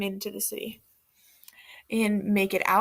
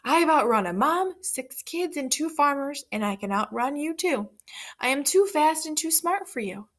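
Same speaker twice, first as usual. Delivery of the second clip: boastful shout; 5 semitones higher than usual. Acted. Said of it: "The pig shouted".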